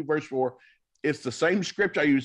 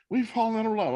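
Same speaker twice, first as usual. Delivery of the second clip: lightly voiced wife, pitched higher; mock wife's voice; 8 semitones higher, faster than usual. Pastor imitating the wife as she repeats it, higher.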